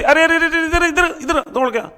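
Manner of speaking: high-pitched mother calling after a running son; mother calling out to Kajju as he runs off, high voice; calling from behind. Acted. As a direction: call him back from a distance. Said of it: "mummy ने पीछे से आवाज दी".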